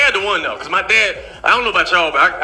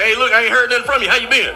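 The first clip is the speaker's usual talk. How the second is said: dad on the phone; 3 semitones higher than usual. Retold or imitated. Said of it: "My dad called me like".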